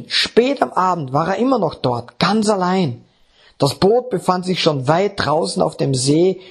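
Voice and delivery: measured Bible reading from the pulpit; scripture reading. Acted. Preacher reads Matthew 14 to the congregation, measured. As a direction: read the passage to the congregation.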